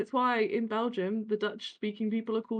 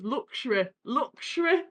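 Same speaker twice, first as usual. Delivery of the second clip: mock northern accent slipping into German; badly faked northern English accent; 3 semitones higher than usual. Shown as a demonstration. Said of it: "I slip into German and on Australian accents".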